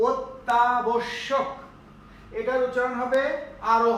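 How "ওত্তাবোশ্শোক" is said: অত্যাবশ্যক very slowly, "ot-taa-bosh-shok"; drawn-out pronunciation demo. Shown as a demonstration. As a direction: stretch অত্যাবশ্যক out part by part.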